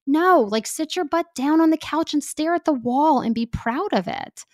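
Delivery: high, insistent pep talk; emphatic urging. Real, not acted. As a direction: tell them firmly to sit down and rest. Urging listeners to rest.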